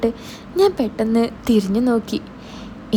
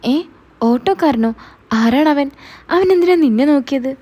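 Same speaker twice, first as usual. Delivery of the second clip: building from a startled question to loud, higher jealous demands; husband growing jealous, rising louder and higher; jealous outburst; 3 semitones higher, 4 dB louder than usual. Acted. Jealous husband hears about auto driver. (ഓട്ടോക്കാരനെക്കുറിച്ച് കേട്ട് ഉയർന്ന ഒച്ചയിൽ അസൂയയോടെ ചോദിക്കുന്ന ഭർത്താവ്)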